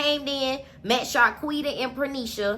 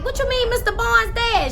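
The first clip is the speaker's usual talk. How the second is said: shocked question; 11 semitones higher than usual. Retold or imitated. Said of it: "she like".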